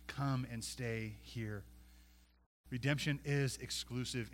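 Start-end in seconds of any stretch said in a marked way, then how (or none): 0.1-1.6 urging. Acted. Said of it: "he was urging her".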